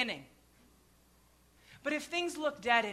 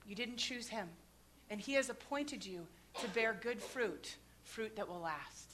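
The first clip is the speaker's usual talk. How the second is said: hushed message; 3 semitones lower, 8 dB quieter than usual. Retold or imitated. Quietly telling him God's message.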